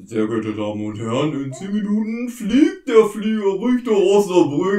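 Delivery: formal announcer voice over the tannoy; airport announcement. Acted. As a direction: read it like a bored gate announcer. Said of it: "ihr hört, ähm, die Flughafendurchsage".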